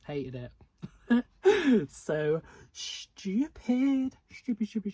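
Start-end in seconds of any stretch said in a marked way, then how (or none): 0.6-1.8 loud, high-pitched burst of laughter; high cackling laugh; real laugh. Real, not acted. Laughs at her own harsh verdict. 1.9-4.9 high, loud, stretched-out mockery easing down; loud, exaggerated derision; exasperated scorn. Real, not acted. Exasperated rant at hated book.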